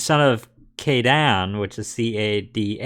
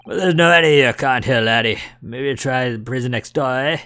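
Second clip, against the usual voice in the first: Scottish governor. Acted. Governor voiced in game.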